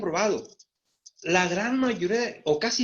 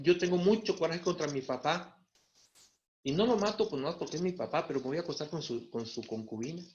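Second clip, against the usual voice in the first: resentful Rubén; 3 semitones lower, 5 dB quieter than usual. Retold or imitated. Rubén speaking against his father, low and bitter. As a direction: lower and softer, fading bitter confession.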